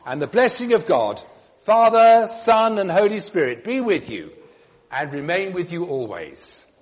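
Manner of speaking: solemn liturgical blessing; formal blessing. Acted. Priest gives the blessing.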